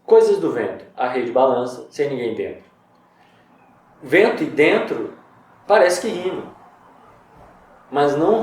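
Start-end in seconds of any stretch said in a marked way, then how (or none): 0.0-2.6 haiku reading again. Shown as a demonstration. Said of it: "Não parece que o poema é rimado?".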